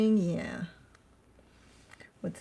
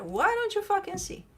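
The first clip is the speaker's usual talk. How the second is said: mock exasperation; 12 semitones higher than usual. Mock frustrated reader outburst.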